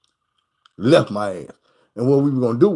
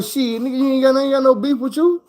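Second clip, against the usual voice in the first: retold reply; 11 semitones higher than usual. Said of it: "And I'm like".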